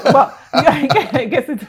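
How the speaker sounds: slow words through a laugh; amused drawn-out laugh. Real, not acted. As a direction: laugh as you speak. Laughs at guest's claim.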